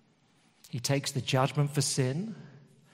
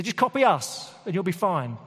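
breezy rescuer; 4 semitones higher, 3 dB louder than usual. Acted. Mock firefighters' breezy advice.

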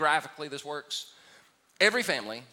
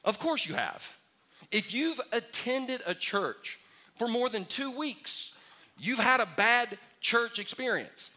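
emphatic reply; 6 semitones higher, slower than usual. Retold or imitated. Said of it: "And I would say".

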